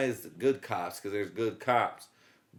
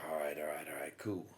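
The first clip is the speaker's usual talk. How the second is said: lower, softer casual okay; low calm cop; 8 semitones lower, 11 dB quieter than usual. Retold or imitated. Cop agreeing casually, low and soft. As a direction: mumble it like it's no big deal. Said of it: "he's like".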